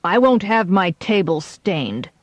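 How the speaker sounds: barked order. Acted. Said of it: "he barked".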